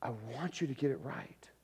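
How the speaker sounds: soft, patient urging; acted gentle counsel, dropped in volume; gentle appeal. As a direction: reason with them quietly. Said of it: "there's that approach of".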